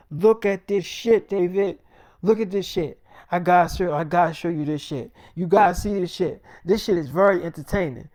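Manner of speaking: a friend dragging him over to look; excited insistence. Retold or imitated. Friend insisting David watch the zombies, excitedly loud.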